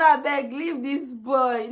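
slow pleading request; slow mild plea. Retold or imitated. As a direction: drag it out begging. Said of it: "I say".

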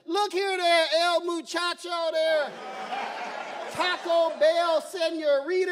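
slow, drawn-out Southern Spanglish; good old boy Spanglish. Retold or imitated. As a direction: mangle Spanish in a slow Southern accent. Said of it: "good old boy Spanglish".

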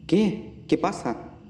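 half-asleep, stumbling words; sleepy mumble. Acted. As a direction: mumble it as if just woken. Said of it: "balbuceó, medio dormido".

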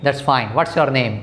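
slow, clear classroom question; slow model question. Shown as a demonstration. Teacher modelling a polite question slowly. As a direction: spell it out slowly for learners. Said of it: "पूछेंगे".

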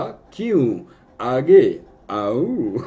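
slow, drawn-out villain drawl on aaoon; Shakti Kapoor impression. Teacher imitates Shakti Kapoor's famous line, slow drawl. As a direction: stretch it like the filmy villain. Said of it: "आऊं कौन बोलता था? शक्ति कपूर".

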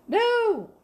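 high, loud drawn-out mock wail; exaggerated British-style protest; hammed-up dismay. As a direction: swoop way up, then drop on the last words. Hammed-up British exclamation after accent practice.

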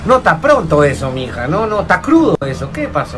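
falling, dismayed protests; appalled reaction. Acted. Friend shown an ugly baby's photo, mock-appalled dismay. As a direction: recoil in hammed-up horror.

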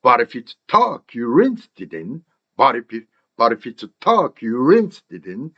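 "But if it's talk you interested in" as "barepits TUR-ki yu-RINS-tidin"; slow drill, stressing "talk" and "rinsed"; linked practice model. Shown as a demonstration. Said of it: "이렇게 연습하면 됩니다".

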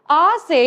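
ആ സേ said clearly as a model for repeating; pronunciation demo. Shown as a demonstration. Teacher showing children the Hindi letter chant ആ സേ, clear. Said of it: "എല്ലാവരും ഒന്ന് പറഞ്ഞു നോക്കണേ".

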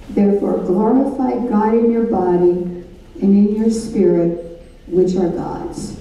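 slow, deliberate Bible reading; measured reading of scripture. Real, not acted. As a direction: read the verse with weight. Reads scripture aloud.

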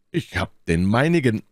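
high-pitched call; D'Artagnan. A narrator's reading. D'Artagnan reports his chosen target, calling out. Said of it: "rief D'Artagnan".

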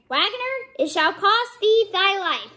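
high-pitched storybook threat; sparrow's threatening cry. A narrator's reading. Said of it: "sat outside in front of the window and cried".

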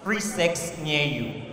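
low, soft, slow ad read; mock a seedy pop-up ad. Reading a spam pop-up in a low mock voice. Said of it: "you just see something pop".

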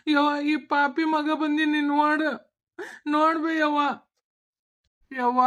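tearful pleading, voice close to breaking; crying. Acted. Son crying, begging his mother to recognize him, tearful. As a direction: beg through tears for her to look at you. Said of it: "ಯಾಕ್ ಅಳಕತ್ತಿ?".

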